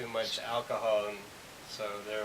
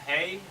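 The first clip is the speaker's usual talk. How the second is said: "Hey" pitched up sharply to call attention; attention-calling intonation; 6 semitones higher, 4 dB louder than usual. Shown as a demonstration. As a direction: lift "Hey" high so listeners take note. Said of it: "other form of intonation, uh, of rising and falling".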